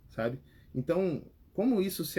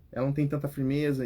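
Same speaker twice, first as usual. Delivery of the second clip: usual speaking voice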